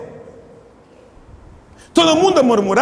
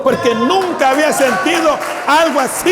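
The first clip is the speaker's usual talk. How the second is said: mock joyful cry; 4 semitones higher than usual. Converted woman quoted.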